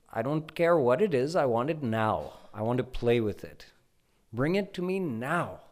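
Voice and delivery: put-on child Krishna throwing a tantrum over the moon. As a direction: demand it on the edge of tears. He's actually starting to cry.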